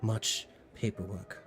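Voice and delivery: lightly voiced busy dwarf merchant; a hint of a fussy dwarf clerk; dwarf woman voice.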